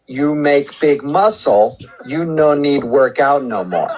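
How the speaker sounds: slow, broken caveman English; mock caveman talk. Prank caller mocking the gym member, slow caveman talk. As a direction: dumb it right down like a caveman, slowly. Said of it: "in a way that maybe you can understand".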